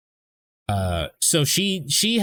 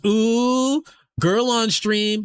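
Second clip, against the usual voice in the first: high, loud, drawn-out teasing ooh; mock excited squeal; 11 semitones higher, 4 dB louder, much slower than usual. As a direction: squeal it like an excited chat viewer. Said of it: "so Pillow goes".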